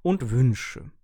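high, loud know-it-all lecture; lecturing. Acted. Coffee machine lectures its owner, loud and lofty. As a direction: talk down to him like a teacher. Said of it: "belehrte mich die Kaffeemaschine".

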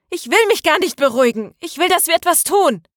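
high, heated refusal; angry protest. A narrator's reading. Maria refuses Ilkay's plea to calm down, angrily demanding action. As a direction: insist hotly, pitch soaring.

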